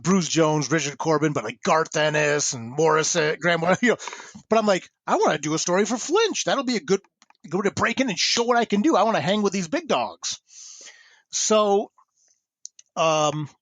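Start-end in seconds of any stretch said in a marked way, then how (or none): 5.1-10.4 higher-pitched eager pitch; an eager newcomer, voice raised in pitch; retold eagerness. Young writer wanting to break in, eager.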